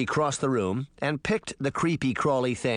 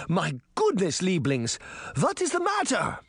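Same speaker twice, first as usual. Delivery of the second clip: put-on old grandmother voice; 5 semitones higher than usual. Grandmother startled awake.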